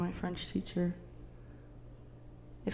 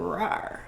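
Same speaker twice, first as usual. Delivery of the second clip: lion roar. Pretend. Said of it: "A Leo".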